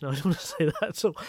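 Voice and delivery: fast, laughing through the words. Real, not acted. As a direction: laugh while taking it back. Laughs at own slip.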